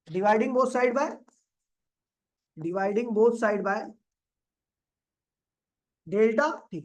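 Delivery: very slow, drawn-out phrase; slow dictation. Real, not acted. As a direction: stretch each word while writing it down. Dictating while writing on the board.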